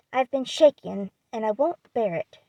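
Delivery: a touch of injured pride, pushed out hard; indignant growl. Acted. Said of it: "growled Laurie indignantly".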